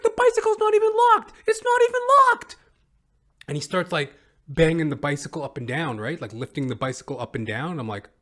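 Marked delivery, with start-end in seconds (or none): 0.0-2.6 much higher, louder squeaky protesting voice; frantic squeal, pleading it's his bike; panicky bike thief. Retold or imitated. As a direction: mimic a high panicky guy caught at the lock. Thief insisting bike unlocked.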